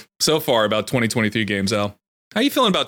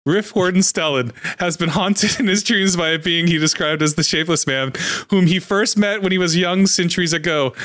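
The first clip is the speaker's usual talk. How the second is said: measured, higher-pitched story reading; lore narration; 6 semitones higher than usual. Acted. Streamer reading Fortnite lore to co-host, story narration. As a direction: read it out like a fantasy backstory. Reads game lore aloud.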